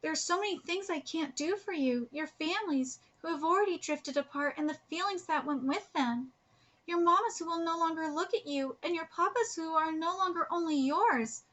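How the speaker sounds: heartfelt letter read aloud. Acted. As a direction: read the letter out, a little lifted from chat. Reads manga letter aloud.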